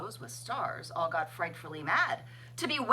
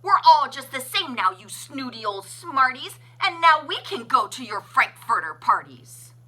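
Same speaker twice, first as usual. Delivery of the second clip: loud, high taunting yell; gloating crowd yell; 5 semitones higher, 8 dB louder than usual. A narrator's reading. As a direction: shout it at the snooty ones. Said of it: "they yelled at the ones".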